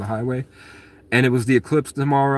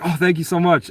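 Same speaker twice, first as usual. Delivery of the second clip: higher, lightly voiced pleased woman; imitating flattered lady; 6 semitones higher than usual. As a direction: mimic her flattered thanks. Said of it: "And she was like".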